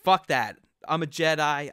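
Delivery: mock heroic Vader; defiant Vader. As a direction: shove back at the Emperor. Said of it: "And he's like".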